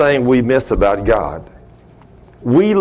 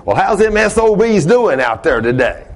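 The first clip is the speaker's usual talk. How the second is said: lightly imitated cussing old man; higher, casual mock greeting; foul-mouthed old customer; 5 semitones higher than usual. Whiskey-swigging customer checking on his truck, imitated cussing. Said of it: "that's the way he talked".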